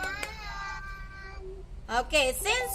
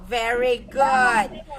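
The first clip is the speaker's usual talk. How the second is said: slow praise; 4 semitones lower, much slower than usual. Real, not acted. Praising a child.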